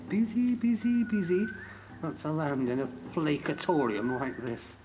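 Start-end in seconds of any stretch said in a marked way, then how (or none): 0.1-1.5 frantic. Acted. Mocking his racing mind.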